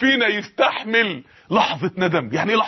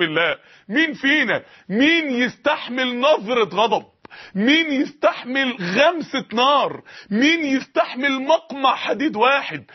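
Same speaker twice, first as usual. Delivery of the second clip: slow rhetorical preaching; slower than usual. Acted. Preaching rhetorical questions, slowed.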